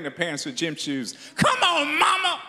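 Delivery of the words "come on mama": put-on high whiny kid begging mama; begging child. Kid begging his parents for shoes, high and whiny. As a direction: plead like a spoiled kid at the mall.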